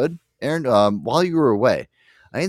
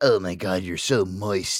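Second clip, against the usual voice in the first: gross, disgusting man voice, lower; 2 semitones lower than usual. Discussing how the word moist sounds, gross guy voice. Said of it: "it sounds disgusting when a guy says it".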